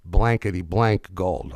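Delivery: the boss laying down the law; emphatic order. Retold or imitated. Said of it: "more emphatic".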